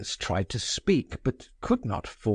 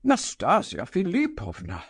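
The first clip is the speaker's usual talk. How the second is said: coaxing her name with a touch of agitation; persuasive, agitated; 6 semitones higher than usual. A narrator's reading. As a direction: plead with her, urgent but persuasive. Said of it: "persuasive but agitated tones".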